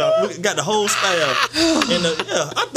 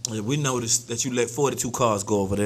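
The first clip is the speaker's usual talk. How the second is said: stern official; 8 semitones lower, 4 dB quieter than usual. Acted. Reprimanding a crossing guard.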